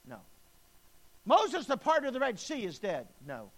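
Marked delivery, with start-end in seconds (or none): 1.2-3.1 loud, high, ringing declaration; booming proclamation. Acted. Preacher booming God's words to Joshua, loud and high. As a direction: proclaim it to the whole church.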